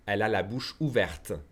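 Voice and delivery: "ouverte" ending in a sounded T; final T pronounced. Shown as a demonstration. Teacher showing the feminine form, T sounded in "ouverte". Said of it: "I'm pronouncing the T".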